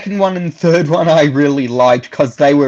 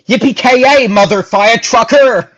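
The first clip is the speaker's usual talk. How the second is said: catchphrase demo; 5 semitones higher than usual. Shown as a demonstration. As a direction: shout it out like the hero would. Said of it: "say it like this".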